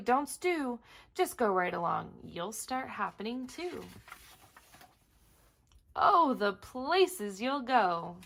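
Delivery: lively, sing-song rhyme reading; story narration. Acted. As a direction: read the rhymes aloud with bounce. Reads Dr. Seuss aloud.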